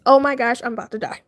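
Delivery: lightly acted panic, voice falling away; inner dread. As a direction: drop the cheer, sink into dread. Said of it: "I am screaming inside".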